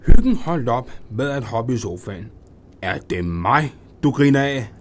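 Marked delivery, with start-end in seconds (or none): 2.8-4.7 angry. Acted. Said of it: "råbte han og stirrede vredt".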